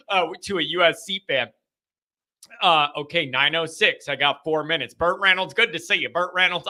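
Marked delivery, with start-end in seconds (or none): 4.9-6.7 lightly put-on celebrity voice; a hint of a celebrity impersonation; Burt Reynolds voice. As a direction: slip into a slight character voice. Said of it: "I don't know why I do that voice".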